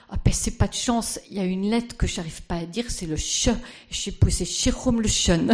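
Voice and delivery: put-on a Danish accent mangling the ch. Speaker imitating Madame Lejeune's Danish accent for the audience. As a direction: mimic a Danish woman struggling with French. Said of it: "avec un accent très fort".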